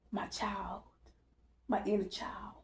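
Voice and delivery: whispered, hushed and tender. Retold or imitated. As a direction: breathe it as a soft whisper. The inner child speaking softly.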